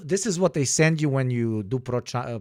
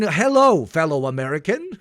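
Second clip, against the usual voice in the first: fake innocent greeting. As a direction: cover a slip with an overdone greeting. Covers slip with fake American greeting.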